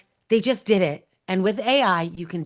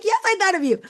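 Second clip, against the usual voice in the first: gushing reply; 11 semitones higher, 4 dB louder than usual. Retold or imitated. Acted reply to touched recipient.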